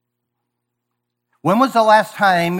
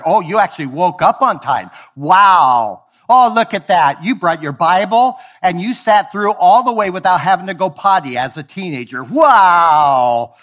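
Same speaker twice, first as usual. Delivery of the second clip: sarcastic; 4 dB louder than usual. Shown as a demonstration. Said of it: "a time and place to talk like that".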